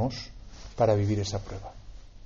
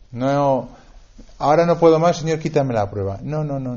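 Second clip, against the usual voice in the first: desperate plea; 3 semitones higher, 7 dB louder than usual. Acted. The preacher voicing a broken believer crying out to God, in a loud pleading cry. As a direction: beg God as if at the breaking point.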